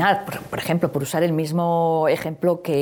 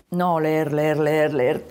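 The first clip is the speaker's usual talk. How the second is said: monotone reading; 2 semitones lower, much slower than usual. Shown as a demonstration. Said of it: "hay que leer permitiendo silencios".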